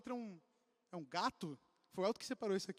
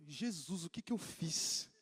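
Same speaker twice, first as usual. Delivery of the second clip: mock alarmed; 6 semitones lower, 4 dB quieter, slower than usual.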